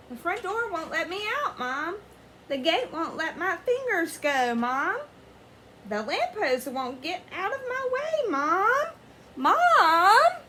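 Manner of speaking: whining that builds to a loud high wail; whiny pleading. Acted. Splat begging his mom, building to a wail.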